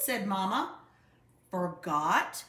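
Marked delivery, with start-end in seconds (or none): 1.5-2.4 a louder, disbelieving Forgot?; first Forgot? said loud, building up; father hearing the notice was forgotten, loud disbelief; indignant repeat. A narrator's reading. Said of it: "roared Papa".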